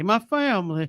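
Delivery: imitating the coach. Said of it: "Jake Brigance character".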